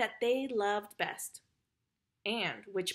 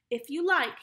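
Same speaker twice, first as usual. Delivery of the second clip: bitter, louder and higher; resentful, forceful consent; bitter reply; 5 semitones higher, 6 dB louder than usual. A narrator's reading. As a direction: throw it back bitterly. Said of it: "he repeated bitterly".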